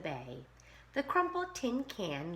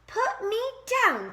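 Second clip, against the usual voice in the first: high, loud cry for help; 10 dB louder than usual. A narrator's reading. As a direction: yelp it out in panic. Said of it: "cried the crab".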